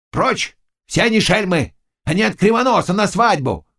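high, angry brush-off; angry shout. A narrator's reading. Zagloba shouts down the old man, angry. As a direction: snap him off sharply. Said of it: "кричал Заглоба".

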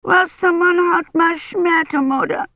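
put-on high, sobbing little girl; little girl sobs to her mother; sobbing child. A narrator's reading.

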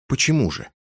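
сквозь зубы, «почему» выше и громче; процедить «Почему же» сквозь стиснутые зубы. Acted. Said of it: "сквозь стиснутые зубы". (сквозь стиснутые зубы)

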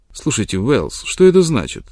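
sharp, rising angry question; angry demand. Acted. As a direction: confront him in anger. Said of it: "Разгневанный Джон Мелтон".

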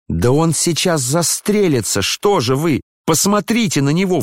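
put-on a girl begging the others to look, in panic; narrated frightened cry. A narrator's reading. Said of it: "вскрикнула Вера ... в чрезвычайном испуге".

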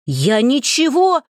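the voice cracks in panic; voice breaking. Acted. A terrified suitor protests as his voice breaks. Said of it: "голос Зайкова сорвался".

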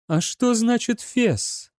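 dry question. A narrator's reading. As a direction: ask it drily. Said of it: "сухо спросила она". (сухо спрашивая)

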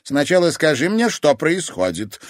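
stern grandmother, firm; firm demand. Acted. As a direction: insist on the truth, no arguing. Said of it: "твёрдо потребовала".

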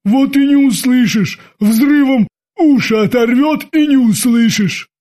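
worked-up timid sailor warning of disaster; agitated sailor. Acted. Frightened sailor argues about explosion.

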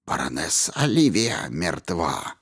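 low, cold detached statement; emotionless. A narrator's reading. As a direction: state it without feeling. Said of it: "бесстрастный ответ".

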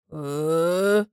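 a low startled «Э?»; one sound full of bewilderment; bewildered grunt. A narrator's reading. Theo reacts to the news, startled grunt. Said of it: "Тео в совершенстве одним звуком передаёт свои чувства".

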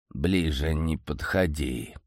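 low, slow, rasping warning; hoarse interruption. A narrator's reading. Old uncle warning his nephew off, hoarse. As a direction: rasp it out to keep him away. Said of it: "сипло перебивая".

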